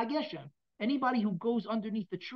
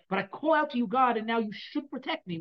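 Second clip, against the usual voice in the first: higher and louder, pressing the claim; insistent plea; 4 semitones higher, 5 dB louder than usual. Acted. King David insisting God protect him, a loud high plea. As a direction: demand shelter like it's owed.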